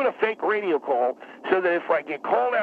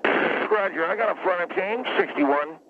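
brisk police radio call, slightly higher; fake radio call; 3 semitones higher, slower than usual. Shown as a demonstration. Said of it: "let me get on the radio here".

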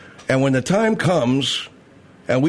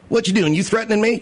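mock alarm; 6 semitones higher than usual. Acted quarrel reply.

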